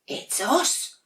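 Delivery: very high, sing-song little voices; sweet sibling penguins. Acted. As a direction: coo it like cuddly little penguins. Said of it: "said his brothers and sisters".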